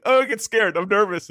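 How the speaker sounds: high mock-frightened alien; mock scared squeak. Shy alien losing its nerve, mock frightened squeak. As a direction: squeak it out like a timid creature. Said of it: "they're like".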